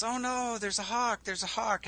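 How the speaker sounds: high, soft worried rabbit voice; panicky rabbit. Acted. Storyteller voices a rabbit spotting a hawk, panicky. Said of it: "the rabbit goes".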